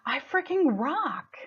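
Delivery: slow, breathy whispered boast; excited whisper. Retold or imitated. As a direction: whisper it like a thrilling secret. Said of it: "there's a part of me that's like".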